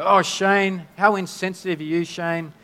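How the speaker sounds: half-playful telling-off; mildly scolding husband for his insensitivity; mock scolding. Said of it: "we can judge Shane and go".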